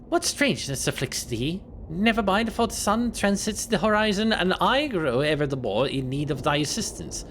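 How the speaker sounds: a lightly voiced archaic gentleman, stately; hammed-up olde-worlde diction; old-fashioned formal speech. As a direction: play it like a stiff Victorian landlord. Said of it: "Why did you start talking like this?".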